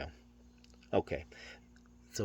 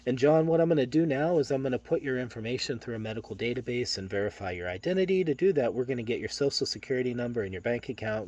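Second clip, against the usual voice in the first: nervous buildup; overexplaining; 4 semitones higher than usual. Shown as a demonstration. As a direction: foreshadow it too much. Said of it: "This is an example of what not to do".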